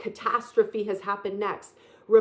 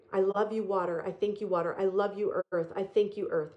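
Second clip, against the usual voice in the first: soft prayer; 2 semitones lower, 4 dB quieter than usual. Shown as a demonstration. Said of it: "Set the intention".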